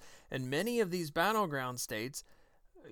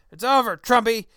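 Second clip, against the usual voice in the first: much louder, higher gloating shout of over, Trumpy; mock Plinkett yell; 4 semitones higher, 12 dB louder than usual. Host as gloating Plinkett yelling at a Trump supporter, loud mock shout. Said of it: "attempt at a Mister Plinkett voice".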